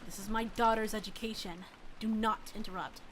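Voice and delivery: high falsetto, cold and curt; stern mother voice. Acted. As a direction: shut him down in a high voice. Reader voices Rosa cutting him off.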